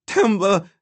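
high, loud cry of her name; terrified shout. A narrator's reading. Boy watches her being seized, shouting. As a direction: call out in terror, pitch shooting up. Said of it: "he shouted".

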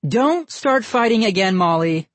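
high, sharp scolding; snapping. A narrator's reading. Mother stops her daughter fighting, snapping. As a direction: snap it at a squabbling child. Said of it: "Missus Barker snapped".

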